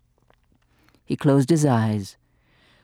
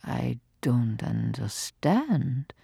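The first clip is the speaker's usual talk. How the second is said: bewildered; 8 dB quieter, slower than usual. Acted. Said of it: "said father".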